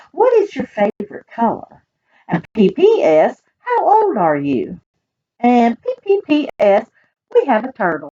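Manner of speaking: lively, sing-song storybook reading; reading to children. Acted. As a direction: read it aloud to a room of kids. Reads picture book to children.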